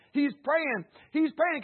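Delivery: high, loud, building; rising preaching cry. Real, not acted. Preacher telling the church Jesus prays, building loud.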